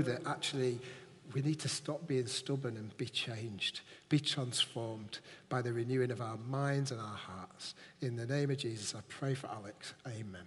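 earnest, fervent church prayer. Acted. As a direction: pray over him in earnest. Leads a prayer.

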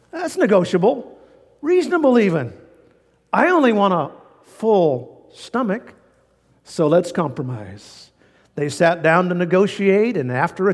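a sly bear striking a deal; smooth-talking bear. Acted. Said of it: "said the bear".

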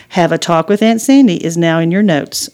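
a lightly voiced phone assistant; the phone assistant repeating the note. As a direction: read the note back like a digital helper. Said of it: "Suri replied".

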